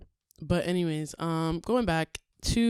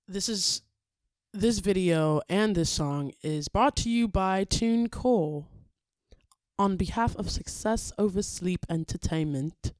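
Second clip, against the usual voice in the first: lightly put-on British accent. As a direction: announce it with a playful British accent. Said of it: "did that with a British accent".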